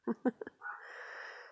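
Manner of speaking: soft, breathy laugh; little voiceless chuckle; small laugh. Real, not acted. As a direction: laugh it off under your breath. Laughs after retold exchange.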